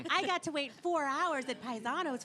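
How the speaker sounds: mock cheerful, dripping sarcasm; sarcastic. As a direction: fake delight at a bad date. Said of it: "being like".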